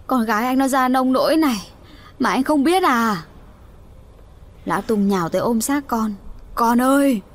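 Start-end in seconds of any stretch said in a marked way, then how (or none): 0.1-3.2 exclaiming. Acted. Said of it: "cô Sáu Nết kêu lên". 6.5-7.2 grief-stricken cry. Acted. Father clutching his dead daughter, crying out in grief.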